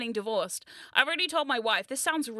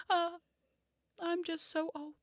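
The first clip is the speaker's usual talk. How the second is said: haggard witch voice; 5 semitones higher, 6 dB quieter than usual. Pretend. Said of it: "I laugh like a witch".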